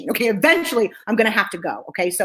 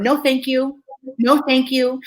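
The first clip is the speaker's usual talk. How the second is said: kindly but firm, evenly said; kind, firm refusal; slower than usual. Shown as a demonstration. Showing an audience how she said no, kind and firm. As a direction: decline kindly and hold the line. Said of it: "I was really kind and very firm".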